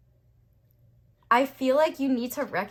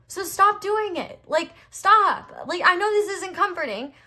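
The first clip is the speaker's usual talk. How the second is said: louder and higher, scolding the viewer to stop; heated scolding; 8 semitones higher, 6 dB louder than usual. Real, not acted. Fired-up reader scolding viewers for being hard on themselves, louder. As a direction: snap at them to stop, real heat. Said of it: "I'm heated".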